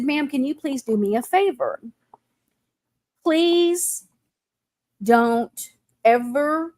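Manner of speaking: slow, halting plea with long pauses; retold tearful plea. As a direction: mildly imitate a man pleading through tears. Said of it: "he's crying, and he said".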